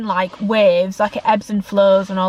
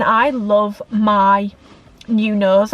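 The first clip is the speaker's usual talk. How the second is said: emotional; 3 dB louder, much slower than usual. Real, not acted. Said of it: "why am I getting emotional".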